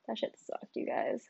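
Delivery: breathy aside, no voice; whispered. Real, not acted. Host whispers to listeners about covid. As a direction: hush it like a confession.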